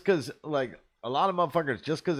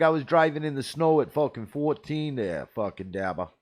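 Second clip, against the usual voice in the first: boasting boss; 3 semitones higher, 5 dB louder than usual. Retold or imitated. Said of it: "He's like".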